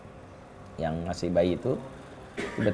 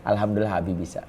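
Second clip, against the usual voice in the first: soft praise; 3 semitones lower, 4 dB quieter, faster than usual. Retold or imitated.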